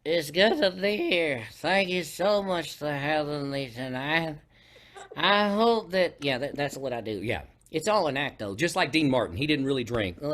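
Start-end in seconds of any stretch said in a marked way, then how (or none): 0.0-6.2 put-on slow, slurred drunk talk; tipsy lounge singer. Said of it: "so do your drunk".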